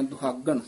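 ਦੁਹਾਗਣ with its first vowel midway between o and u. Shown as a demonstration. Teacher showing students ਦੁਹਾਗਣ with an in-between o-u. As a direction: blend o and u in ਦੁਹਾਗਣ. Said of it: "ਦਰਮਿਆਨਾ ਜਿਹਾ ਬੋਲ ਜਾਣਾ".

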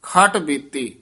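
ਖਟ ਬੀਤੀ together, resting after ਬੀਤੀ; rest after phrase. Shown as a demonstration. Teacher marks the rest, pausing after ਖਟ ਬੀਤੀ. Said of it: "ਇੱਥੇ ਵਿਸਰਾਮ ਹੈ".

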